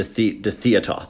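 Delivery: slow, pretentious "theatre"; mock-grand. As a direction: draw out "theatre" affectedly. Mock-grand word for son's hobby.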